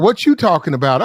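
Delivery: imitating her pushy comeback; retold challenge. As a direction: throw the question back, loud and level in pitch. Retold exchange, her side.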